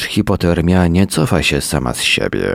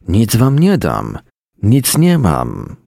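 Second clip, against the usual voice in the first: raised pitch, insistent protest; emphatic refusal; 7 semitones higher than usual. A narrator's reading. Man refuses dogs waiting for food, insistent and high.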